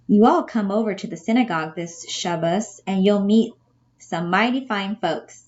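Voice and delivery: mild Southern lilt for Missus Schneider; lightly imitated Southern accent. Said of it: "trouble with my New York accent".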